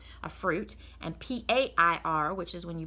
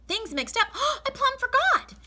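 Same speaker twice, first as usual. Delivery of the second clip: much higher, louder gasp; sudden realization; 8 dB louder than usual. Acted. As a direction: remember the pie in alarm. Amelia remembers the pie.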